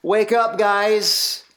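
urgent wake-up call. Acted. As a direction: rouse them like a preacher. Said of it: "Jesus is saying".

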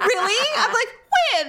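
high, laughing reproach; jilted indignation. Retold or imitated. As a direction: play the jilted lover.

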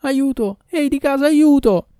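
high, loud screams for help; panicked high yelling; terrified cry for help. Acted. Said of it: "ma ebbe un bel gridare".

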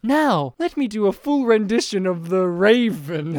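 lightly voiced grandiose announcement; a hint of a pompous performer; pompous artist. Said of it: "he's like".

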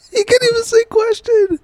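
laughing through the line. Real, not acted. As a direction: giggle while saying it.

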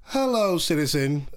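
hammed-up formal clerk voice; mock official greeting. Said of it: "You're like".

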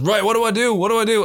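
high-pitched, keen questioning; imitated eager excitement. Director asking how to eat his first Nando's, imitated eagerness. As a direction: play an eager first-timer wanting instructions.

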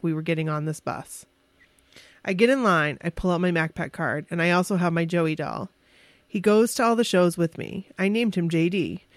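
lively read-aloud narration; measured, scripted storytelling; personal story read aloud. A narrator's reading. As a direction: read your own diary entry to friends. Reads written fan story aloud.

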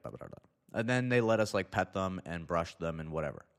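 ordinary talk, nothing marked

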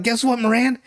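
bursting to share the news; excited. Retold or imitated. Sammy telling Moran his news, mock excited. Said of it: "He's all excited".

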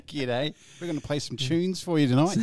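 put-on Australian accent, lightly overdone; mock broad Australian. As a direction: play up the Aussie twang like a cheesy radio host. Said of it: "you need the Eric Bana head".

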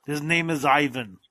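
put-on thick Russian accent; Ivan impression. Naming the YouTube guy to cohost, mock Russian accent. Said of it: "I just like talking like this".

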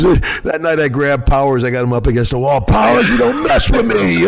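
high, loud, slowed hammed-up brawler yell; Duggan impression. Imitating Duggan grabbing Powers, a loud hammed-up yell. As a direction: yell it like a wild wrestler pinning someone. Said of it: "he goes".

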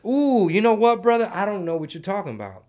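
mock playing dumb. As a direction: feign ignorance to dodge the question. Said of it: "That's what I'm gonna start doing".

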